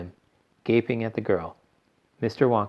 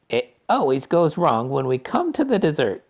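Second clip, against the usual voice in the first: sighing; 7 semitones higher, 4 dB louder than usual. A narrator's reading. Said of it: "sighed Mister Wonka".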